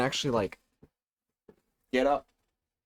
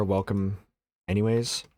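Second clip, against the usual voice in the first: dismissive, offhand welcome; mean-sounding; 3 semitones lower than usual. Real, not acted. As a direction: toss off the welcome coldly. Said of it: "Makes you sound mean".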